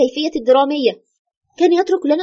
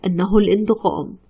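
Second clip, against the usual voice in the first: a hint of the late husband, a little lower; dead husband's voice; 4 semitones lower than usual. Ghost of the husband answering his widow, lightly voiced and lower. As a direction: let the dead man speak through you, lightly. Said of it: "بصوت وأسلوب قريب جدًا من زوجي الراحل".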